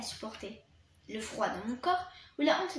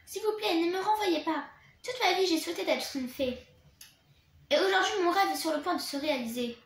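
higher, louder, pleading passionately; fervent plea; 4 semitones higher, 4 dB louder than usual. Acted. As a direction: beg with all her heart. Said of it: "Avec fougue". (Bloom supplie la directrice avec fougue de ne pas la renvoyer)

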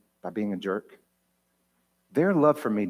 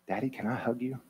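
put-on child's plea; 8 dB quieter than usual. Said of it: "She said, while she was still laying".

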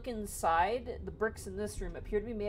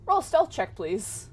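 monster voice; 2 semitones higher, 6 dB louder, slower than usual. Acted. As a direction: voice the hidden monster calling out. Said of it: "you hear".

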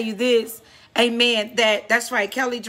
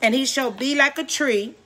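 emphatic psalm reading with drawn-out key phrases; preaching scripture reading. Acted. Preacher reads the psalm to listeners tonight, preaching scripture reading. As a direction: proclaim each verse to the congregation, stretching the endings.

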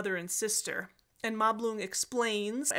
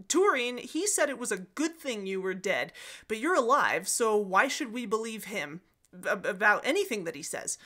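mild retold outcry, punched at the start; crying out. Dorlas's wife challenges Turin before everyone, mildly acted outcry. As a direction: protest aloud, lightly acted. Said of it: "Dorlas's wife cries out".

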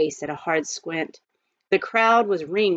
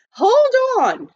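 loud, higher call to halt; demanding; 8 dB louder than usual. Acted. Praiseworthy halts the hanging, loud and demanding. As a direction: stop the hanging with a shout. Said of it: "demanded Praiseworthy".

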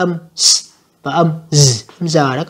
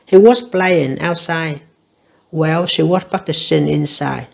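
slow, careful reading of the test sentence; slow dictation read; much slower than usual. Shown as a demonstration. Teacher reading an exam sentence to learners, slow and careful. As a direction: read it out slowly for students.

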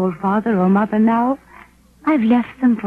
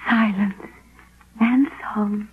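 whisper; 5 dB quieter than usual. Acted. Solveig hushed in the forest.

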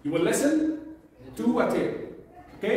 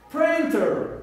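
Printer with the first syllable prin stressed and higher; 6 semitones higher than usual. Shown as a demonstration. Teacher modelling word stress for repeating students, stressed prin. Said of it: "the stress on the first one".

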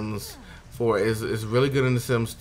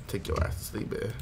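whisper; 7 dB quieter than usual. Pretend. Voicing the universe.

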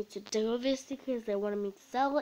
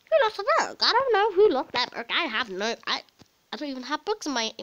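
flustered kid impression; 3 semitones higher, 6 dB louder than usual. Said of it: "That was the best impression".

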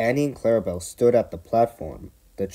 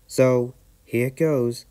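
determined; 4 semitones higher, slower than usual. Acted. Percy bracing himself.

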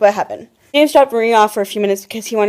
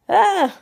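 short high groan; 9 semitones higher than usual. Real, not acted. Groaning to viewers as she remembers that day, high groan. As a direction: let out a high "ah".

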